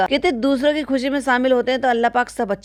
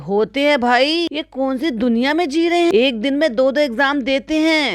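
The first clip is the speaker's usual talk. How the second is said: higher-pitched, incredulous rebuttal; exasperated disbelief; 5 semitones higher than usual. Real, not acted. Vlogger answering a relative's exam excuse, exasperated disbelief. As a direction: scoff at a lame excuse, pitched up.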